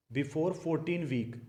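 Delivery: very slow, every word spaced out; slow dictation. Shown as a demonstration. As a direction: spell it out slowly so they can write it down. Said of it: "मतलब चौदह week से पहले पहले".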